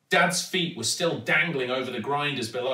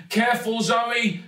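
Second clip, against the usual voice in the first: high, raised warning call; urgent warning; 9 semitones higher, 4 dB louder than usual. A narrator's reading. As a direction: warn her before she falls. Dad warns wobbling daughter.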